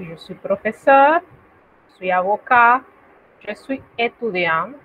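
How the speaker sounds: professions said in French one after another; teacher demo; French model phrases. Shown as a demonstration. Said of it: "Podemos decir".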